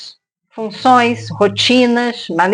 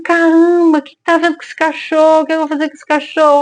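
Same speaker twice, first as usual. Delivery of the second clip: higher, fast startled exclamation; passerby taken aback by the crying dog, higher and quick; alarmed bystander; 6 semitones higher, faster than usual. Retold or imitated. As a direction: sound startled and at a loss. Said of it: "a pessoa olhou e falou".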